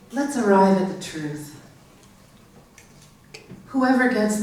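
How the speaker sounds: measured poem reading with long pauses; poetry reading. Acted. Reads own poem to audience.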